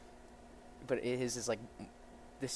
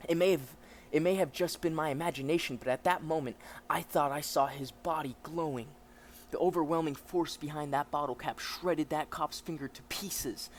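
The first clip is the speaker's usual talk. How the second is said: animated storyteller reading; lightly dramatic narrator; story narration; 3 semitones higher, 4 dB louder than usual. A narrator's reading. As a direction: recount it like a dramatic witness.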